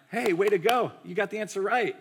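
cheesy, upbeat pat on the back; hammed-up teacher handing out a sticker; mock Sunday school praise. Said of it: "Like the Sunday school".

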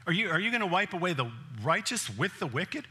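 everyday retelling of Abraham's plea; casual paraphrase. Retold or imitated. Preacher restates Abraham's question to God, casual and direct. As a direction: say it like a friend asking outright.

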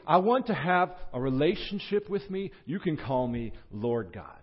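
earnest personal appeal, pitched high; God. Acted. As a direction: make an emphatic, heartfelt declaration. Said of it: "It's like saying".

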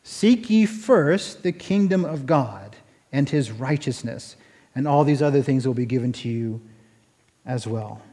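slow, hushed scripture quote, falling away; scripture recital. Acted. Preacher quoting scripture to the congregation, slow and quiet. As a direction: let the verse settle, slow and low.

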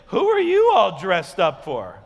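teasing demand, pitch jumping at the end; mock questioning. Wife teasing her dressed-up husband, mock questioning. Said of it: "So I joke back with her".

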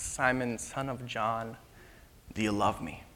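soft, low, unhurried asking; quiet, sincere and weighty; solemn, tender question. Acted. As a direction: ask gently, pausing before the question. Jesus solemnly questions Peter.

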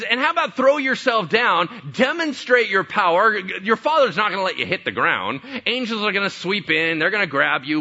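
loud, high, coaxing tempter; tempting Satan. Retold or imitated. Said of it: "Then he says".

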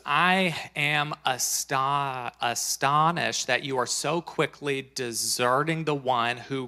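preacher reading an epistle aloud; measured, emphatic Bible reading; emphatic scripture reading. Acted. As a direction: read it out firmly, leaning on key words. Reads Paul's letter to congregation.

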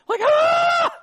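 very high, loud, slow shocked yell; Adam shrieking at the animals in mock shock. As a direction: shriek at what you just walked in on.

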